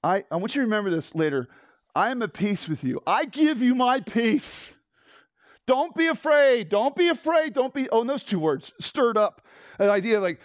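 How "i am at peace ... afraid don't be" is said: voicing Christ. Christ reassuring his frightened disciples, rising and pleading. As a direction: speak as Christ comforting his friends. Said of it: "hear me speaking through Christ saying".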